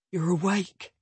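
calm, gentle male voice; soft and level. Acted. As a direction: reassure her quietly. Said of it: "His voice is soft and level".

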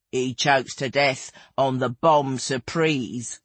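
slow, low punchline; a hint of dry older companion; deadpan.

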